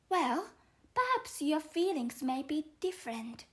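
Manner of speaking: young Alice explaining herself to the caterpillar, lightly voiced. Alice answers.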